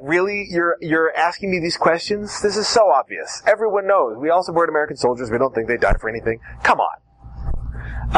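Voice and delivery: mock disbelief at an obvious question; incredulous. Shown as a demonstration. Witness acting amazed at the examiner's silly question. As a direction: treat the question as childish. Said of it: "totally unreasonable and re-, eh, or childish".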